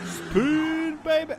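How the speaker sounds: high, loud whoop; excited cheer. Real, not acted. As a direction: cheer the spin on. Cheering a spinning car.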